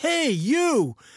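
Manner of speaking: put-on, very high, calling-out yell. Retelling a woman in a hotel lobby calling out to two strangers, retelling a yell. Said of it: "she yells".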